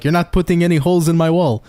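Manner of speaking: lightly imitated Portuguese-accented dad; a stern dad's line with a hint of Portuguese accent; mild Portuguese accent, mimicking dad. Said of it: "With his little Portuguese accent".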